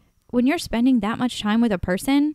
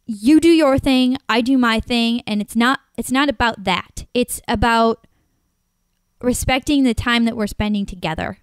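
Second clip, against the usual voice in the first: retold scolding; 2 semitones higher, 4 dB louder than usual. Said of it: "And I was like".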